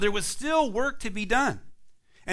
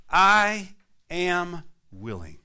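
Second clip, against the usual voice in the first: slow gentle assurance; 4 dB louder, much slower than usual. Acted. Jesus answers the leper.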